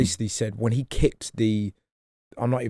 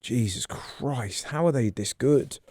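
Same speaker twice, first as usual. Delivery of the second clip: awed mutter; 5 dB quieter, slower than usual. Retold or imitated. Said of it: "you just go".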